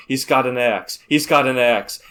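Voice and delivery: half-yelled warning into a walkie-talkie; a milder replay of the axe warning; retold yell. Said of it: "I just yell".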